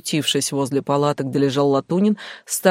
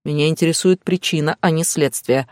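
curt cut-off. Acted. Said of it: "отрезал Стас".

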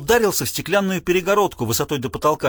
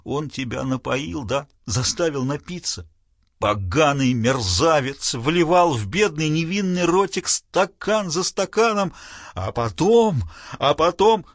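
tragic, plaintive; slower than usual. Acted. Father to his daughter, tragic and plaintive. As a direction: mourn the ruined innocence. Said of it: "сменил тон на трагический, даже жалобный".

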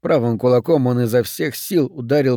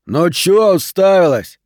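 slow, loud, higher rude challenge; rude snarl; 6 semitones higher, 5 dB louder, slower than usual. A narrator's reading. Benson to Lane, who stares at him: rude loud snarl. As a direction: glare at her and sneer the words. Rude boy snaps at girl.

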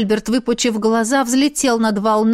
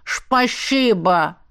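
very slow, mumbling lisp on Шпасибо; lisping fish; much slower than usual. A narrator's reading. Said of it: "рыба высунула морду и прошамкала".

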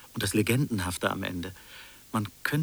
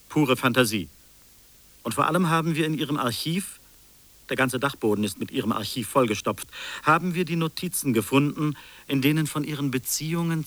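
louder and higher, scoffing at the fantasy; scornful outburst; 4 semitones higher, 3 dB louder than usual. Acted. Investigator scoffs at the invented tale, raised scornful voice. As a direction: throw it back at him with scorn.

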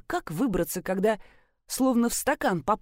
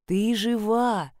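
calm her down slowly; slow reassurance; much slower than usual. Acted. Narrator reassures the sobbing girl again, slow and gentle. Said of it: "ещё раз сказала я".

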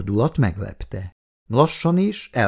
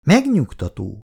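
smiling; 5 semitones higher, 3 dB louder than usual. Acted. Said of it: "mondta mosolyogva".

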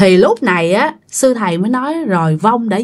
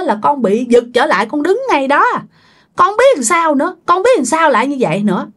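higher, anxious, tearful telling; crying dead husband's voice; 5 semitones higher than usual. Retold or imitated. Dead husband tells relatives how scared he was, higher and tearful. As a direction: imitate the frightened dead man's sobbing words. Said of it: "vừa khóc, vừa nói".

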